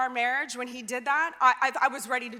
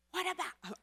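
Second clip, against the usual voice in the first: hushed, much softer aside; soft secret whisper; 3 semitones higher, 10 dB quieter than usual. Retold or imitated. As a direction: whisper so the caller can't hear. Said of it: "I'm whispering to Grant".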